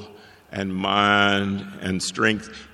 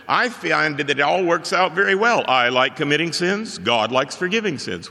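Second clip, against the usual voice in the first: put-on girl's quote; 5 semitones higher than usual. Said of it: "there was a girl who said".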